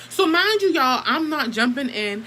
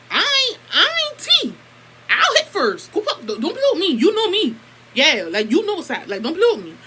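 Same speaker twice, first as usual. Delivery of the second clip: high and loud, laughing as she threatens; mock fierce warning, loud with laughter; retold angry warning; 7 semitones higher, 4 dB louder than usual. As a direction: hype yourself up, half laughing, daring her to swing. Retelling her own angry warning.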